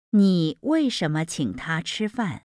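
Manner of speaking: 为什么 stressed, the rest lighter. Shown as a demonstration. Teacher showing stress on 为什么. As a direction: lean on 为什么 in 你为什么请他吃饭. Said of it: "demo of logical stress".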